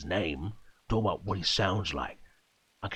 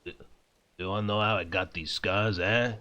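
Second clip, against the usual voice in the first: Joker impression retry. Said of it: "That's more as".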